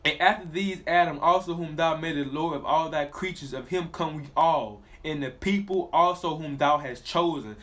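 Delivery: slow, solemn reading of the verse; scripture reading. Acted. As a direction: let each phrase of scripture land slowly. Reads scripture aloud.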